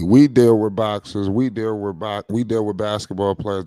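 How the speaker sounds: We punched, then the rest plain; stress on we. Shown as a demonstration. Correcting his co-host, stressing We. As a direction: lean on We each time. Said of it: "we gotta emphasize the word we".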